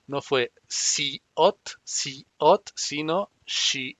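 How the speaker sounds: "si, ot" with a plain s, then "she" with sh, slowly; slow demo contrasting si and she; wrong versus right. Shown as a demonstration. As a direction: contrast the s and sh onsets. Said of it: "el sonido más cercano a S H".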